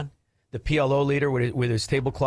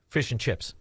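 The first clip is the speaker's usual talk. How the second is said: mocking taunt; 5 semitones lower, 3 dB quieter than usual. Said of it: "you with that stupid accent".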